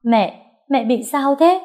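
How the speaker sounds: high, slow, crying plea; tearful plea. A narrator's reading. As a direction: beg through tears, frightened daughter. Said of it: "bật khóc nói". (giọng cao, chậm, vừa khóc vừa hỏi)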